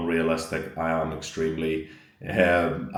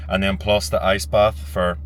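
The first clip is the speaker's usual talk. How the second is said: burpy voice; talking through a burp; 2 semitones higher, 6 dB louder than usual. Real, not acted. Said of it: "sorry, I'm just burping".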